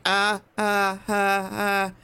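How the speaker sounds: mild mock scream of a wounded creature; imitated creature scream. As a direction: lightly voice the lobster's scream. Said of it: "sort of screaming".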